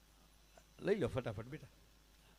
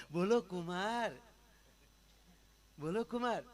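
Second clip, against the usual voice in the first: mother-in-law voice; 3 semitones higher than usual. Acted. Mother-in-law answering son-in-law.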